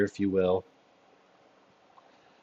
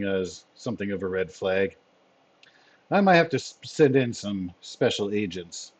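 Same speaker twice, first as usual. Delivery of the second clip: lightly voiced commander, measured concern; deliberate, formal chief weighing the news; Fury. Commander weighs a red flag and praises his team, lightly voiced.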